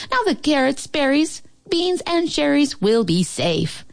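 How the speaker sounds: high, happy animal voices; cheering. A narrator's reading. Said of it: "the animals cheered".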